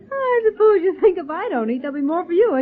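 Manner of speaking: laughing through the words; laughing tease. Acted. Patsy teases Jerry about eating all the food, laughing.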